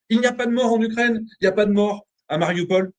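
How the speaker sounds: high, sustained mock proclamation; ironic insistence. Guest mocking the zero death count in Ukraine, ironic insistence. Ironically reciting the absurd conclusion.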